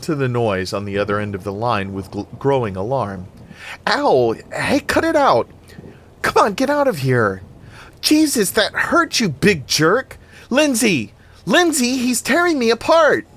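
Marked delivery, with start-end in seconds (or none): 3.9-13.3 high, loud, frantic cries at the dog; yelling in pain. Acted. Annie yells at the dog tearing at her.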